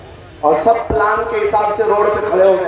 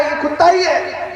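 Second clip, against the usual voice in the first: defeated conclusion; 8 semitones higher, slower than usual. Acted. Owner gives up, convinced.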